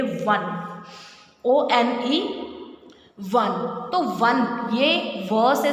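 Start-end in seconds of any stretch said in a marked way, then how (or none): 0.0-3.5 वन said as "wun", a clear w sound; teacher showing वन starts with a w sound; pronunciation demo. Shown as a demonstration. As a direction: spell out O N E, then say वन with a w. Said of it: "जिसको pronunciation कैसे करेंगे?".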